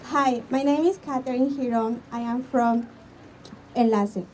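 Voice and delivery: ordinary talk, nothing marked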